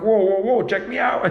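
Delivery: mock-excited, rising high on check me out; playfully impressed with himself; excited whoa. Telling the friend about his own reaction, mock excited.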